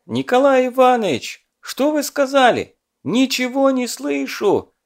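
high, loud deafened calling out; to someone hard of hearing. A narrator's reading. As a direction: call out like you can't hear. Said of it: "взывал стажёр".

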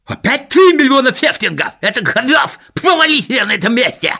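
high, loud indignant miser cry; outraged shout. A narrator's reading. Miser Scooperfield yells at swindlers, high and indignant. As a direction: cry robbery at the top of your voice. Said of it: "закричал Скуперфильд".

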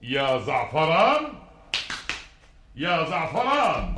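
slow, loud, high call across the palace. Acted. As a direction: call the servant's name from afar. King calls for his servant.

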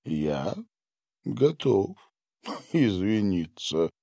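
ordinary delivery, nothing marked

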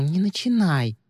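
a touch of a grumble; half-hearted grumbling; mild grumble. Acted. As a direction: grumble it under your breath, lightly. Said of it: "проворчала Ли".

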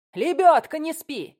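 high, loud call to attention; sharp command. A narrator's reading. Director prods a dozing crew member, commanding. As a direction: rouse a colleague with an order. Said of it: "скомандовала".

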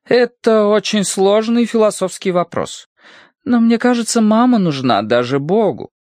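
high-pitched character voice, pondering; Sirotina Markelovna, thoughtful. A narrator's reading. Sirotina Markelovna answers a philosophical question, thoughtful high voice.

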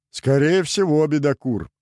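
a mild laughing groan; moaning through laughter. Acted. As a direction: moan it out while wiping away tears of laughter. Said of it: "простонал утирающий слёзы астролог".

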